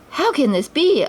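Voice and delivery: stunned at the white herd; puzzled wonder. A narrator's reading. Aladdin stares at the white herd, baffled. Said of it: "Aladdin wondered".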